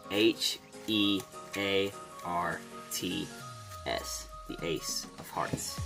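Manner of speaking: slow hushed magician's reveal; theatrical magician. Acted. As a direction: draw out the reveal like a stage magician. Magician's dramatic card reveal.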